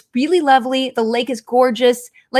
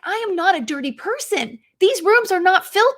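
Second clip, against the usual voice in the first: freaking out; 6 semitones higher than usual. Retold or imitated. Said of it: "I was freaking out".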